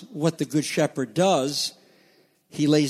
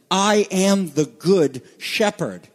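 slow, deliberate declaration, "I" stressed; weighty, drawn-out "I am the good shepherd"; emphatic proclamation; 3 semitones higher, 4 dB louder, slower than usual. Retold or imitated. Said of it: "emphatic proclamation".

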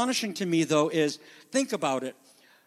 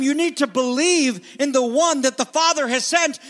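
Jesus voiced; 7 semitones higher, 6 dB louder than usual. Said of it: "Jesus is going to tell them".

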